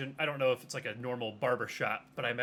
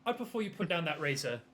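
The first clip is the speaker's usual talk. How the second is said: loud, raised, commanding character voice; stern interrogator character; 5 semitones higher, 6 dB louder than usual. Acted. Player's character warns the suspect holding a razor, stern and loud. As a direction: warn firmly, asserting control.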